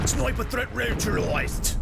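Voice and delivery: high, slow mock Aussie-English; exaggerated Aussie-English military call-out; put-on Aussie-English accent. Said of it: "It's a very good accent".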